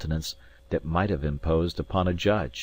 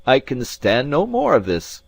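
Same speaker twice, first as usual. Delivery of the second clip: raised, loud protest; exasperated cry; 7 semitones higher, 6 dB louder than usual. A narrator's reading. Narrator has had enough of Alan's pretence, exasperated. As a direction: protest loudly, pitch pushed up. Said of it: "I cried".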